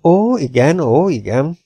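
high, lilting mild reply; szelíd felelet. A narrator's reading. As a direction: agree meekly, in a swooping tune. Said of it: "felelt a professzor szeliden". (szelíden, engedékenyen)

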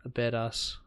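"badass" with a long Kiwi AH; Kiwi accent. Shown as a demonstration. Showing a co-host how Kiwis say things, Kiwi accent. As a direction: repeat it in a New Zealand accent. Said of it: "full Kiwi accent instead".

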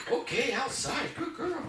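OUTSIDE very high and drawn out; high-pitched dog-praise voice, punching OUTSIDE; emphasized cue word. Shown as a demonstration. Trainer cueing the dog at the door, high emphatic OUTSIDE. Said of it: "emphasize the word outside".

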